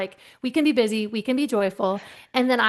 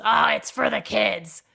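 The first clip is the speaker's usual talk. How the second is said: sheepish coworker; slower than usual. Retold or imitated. Paul excusing himself.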